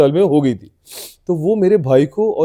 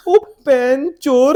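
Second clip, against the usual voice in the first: taxi driver's jab; 8 semitones higher, much slower than usual. Retold or imitated. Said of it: "वो बोलेगा".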